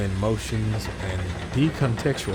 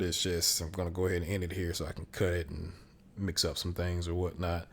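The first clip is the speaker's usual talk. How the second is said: hoarse, rough gravelly voice; gravelly from a dry throat. Real, not acted. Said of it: "I sound like a gravelly old man".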